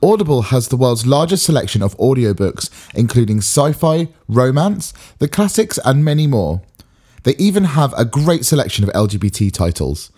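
steady sponsor read voice. Acted.

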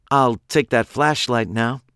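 lightly voiced armed captor, calmly explaining; a hint of cool menace, matter-of-fact; Pete, smug captor. A narrator's reading. Pete demands the flashlight.

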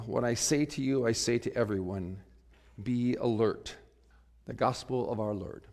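solemn gospel reading to the congregation; scripture reading. Acted. Pastor reading the gospel to his congregation, solemn reading voice. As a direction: proclaim the gospel passage, measured and earnest.

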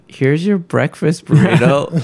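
chirpy server impression. Server to a tearful customer in the coffee shop, chirpy mock voice.

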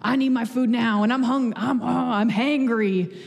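mock rude customer. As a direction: play the impatient, hangry diner half-jokingly. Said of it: "just the worst and rude".

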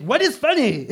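put-on high, offended French-accented question; imitating a French husband; mock French husband. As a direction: demand it like an annoyed Frenchman. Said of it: "that's such a French thing to ask".

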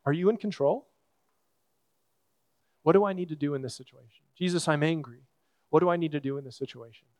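quiet, plain confession to Jesus; soft honest prayer. Retold or imitated. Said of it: "go to Jesus and say".

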